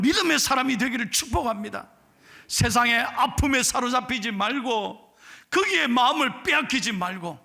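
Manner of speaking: loud, driving exhortation to the congregation; rally the church to faith, full voice; fervent preaching. Acted. Pastor urging the congregation to faith, loud preaching.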